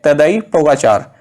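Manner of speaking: "तदेई पोगाचार" said as it is in Slovenia; pronunciation demo. Shown as a demonstration. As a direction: show how "तदेई पोगाचार" is pronounced. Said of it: "इसका pronunciation यही है".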